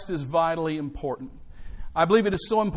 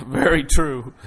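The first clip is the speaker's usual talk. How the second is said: laughing it out, louder and slow; 3 semitones lower, 8 dB louder, slower than usual. Real, not acted. Pastor laughing at his daughter's joke, laughing. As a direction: chuckle through the words.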